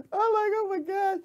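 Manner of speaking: high, slow, drawn out oh my God; mock exasperation. Vlogger acting out her reaction to the news, drawn out and high. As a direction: stretch it out in mock disbelief. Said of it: "I'm like".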